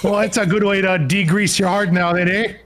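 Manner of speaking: high laughing Wisconsin voice; hammy upper Midwest drawl; Wisconsin accent. Retold or imitated. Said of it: "we're like".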